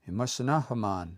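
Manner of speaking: Imasanahaman with a long "ah" in the last syllable; long final A. Shown as a demonstration. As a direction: draw out the final "man" of Imasanahaman. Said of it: "That long A at the end".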